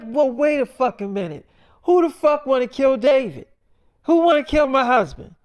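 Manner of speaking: demanding who wants her husband dead; alarmed wife. Retold or imitated. Wife hears husband is targeted.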